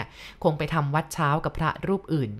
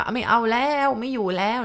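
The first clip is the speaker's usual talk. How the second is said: frightened shout; 5 semitones higher than usual. Retold or imitated. Fisherman fleeing the ghost, shouting in terror. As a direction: yell it as you flee in panic. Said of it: "ร้องตะโกนไปบอกว่า".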